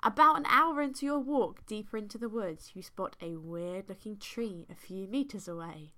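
measured, deliberate storytelling read; story narration. A narrator's reading. Host reads fan fiction to co-host, story narration. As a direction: read it like an unfolding tale.

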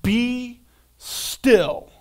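calm scripture. Shown as a demonstration. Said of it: "Scripture says".

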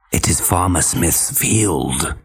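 low, slow, falsely friendly wolf; wolf faking kindness. Acted. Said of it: "trying to make his voice sound friendly".

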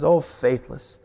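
Jesus rebuking the faithless generation, slow and stern; angry Jesus. Retold or imitated. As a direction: drag out the reproach wearily. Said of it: "Jesus again got angry".

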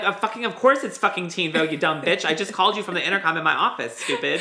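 mock exasperated boss, lightly voiced; irritated mock telling-off; Lisa Love. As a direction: play at scolding a clueless employee. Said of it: "'Cause if I was Lisa Love".

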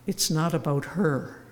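gentle, calm retold advice; kindly. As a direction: say it kindly, like a wise old priest. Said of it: "looked at me very kindly".

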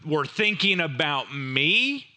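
a hint of a scolding master calling out the servant; mildly stern rebuke, lightly voiced master. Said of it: "He calls him out".

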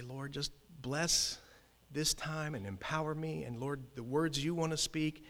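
softly voiced re-enacted prayer; retold prayer. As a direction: pray under your voice, as if retelling it. Acts out his prayer in truck.

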